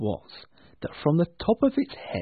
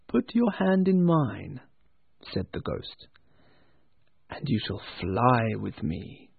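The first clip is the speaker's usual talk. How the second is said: calm ghost; 2 semitones lower than usual. Acted. Ghost calmly invites Scrooge.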